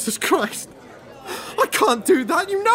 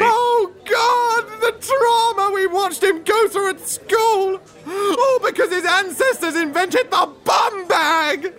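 anguished wail; 6 semitones higher, slower than usual. Acted. Anguished outburst over school memory.

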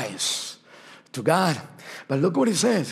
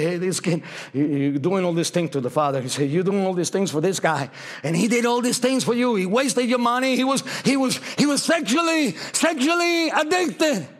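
resentful brother; 2 semitones higher than usual. Acted.

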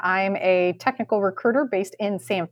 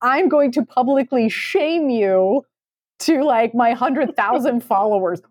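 laughing mock; 3 semitones higher than usual. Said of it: "it's like".

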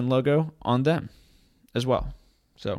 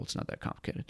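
whispered aside; 14 dB quieter, faster than usual. Real, not acted. Muttered aside.

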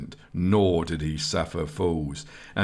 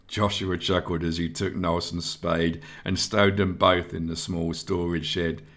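ordinary delivery, nothing marked

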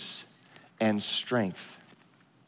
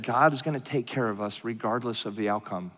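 retold peaceful assurance, lower and softer; calm reassurance; 3 semitones lower, 5 dB quieter than usual. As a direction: voice a wife's settled faith, gently. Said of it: "calm me down".

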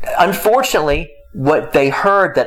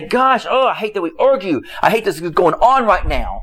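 lightly acted exasperation, pitched up at first; mild mock anger; 4 semitones higher than usual. A spouse venting during an argument, mildly angry. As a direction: act out a frustrated complaint. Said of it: "it's okay to be angry and say".

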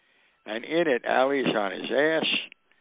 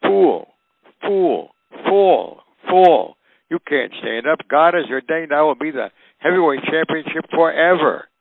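higher and louder, a boxer taunting his opponent mid-fight; yelling taunts; 5 semitones higher, 6 dB louder than usual. Retold or imitated. Ali yelling taunts at Frazier in the fifteenth round. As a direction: bark the taunts across the ring. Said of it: "he starts to yell at me".

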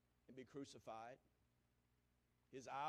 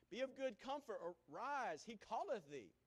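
loud, raised call of encouragement; 8 semitones higher, 7 dB louder than usual. A narrator's reading. Preacher reads crowd summoning the blind man, calling out.

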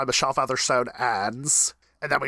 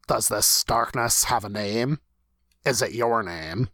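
measured, solemn voiceover read; even, deliberate monologue delivery. Acted. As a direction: read it like a closing narration. Reads out a character's voiceover monologue.

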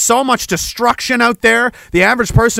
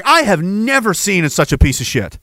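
devil voice. Pretend. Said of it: "The devil is like".

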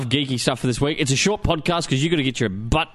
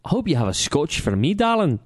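put-on a light Scottish accent, charming a listener; lightly put-on Scottish accent with a flirty "darling"; 3 semitones higher than usual. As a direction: lay on a mild Scottish brogue for a fan. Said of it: "if I'm going to do a Scottish accent".

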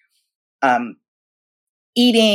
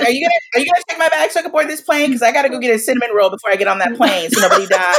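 mock impatience; 5 semitones higher, faster than usual. Mock-impatient to TSA agent.

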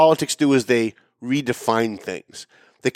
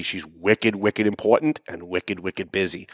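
mock busy excuse; 6 semitones lower, 4 dB quieter, slower than usual. Mocking her wicked busy excuse.

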